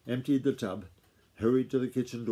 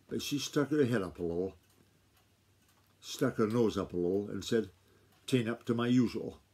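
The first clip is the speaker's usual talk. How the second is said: slower. Shown as a demonstration. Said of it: "I'll read that paragraph again".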